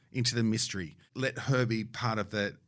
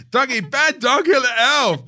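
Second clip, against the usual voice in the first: louder, higher pretend telling-off, laughing; laughing mock scold; 14 semitones higher, 13 dB louder, slower than usual. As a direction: scold the dog in mock outrage. Acting out scolding the dog.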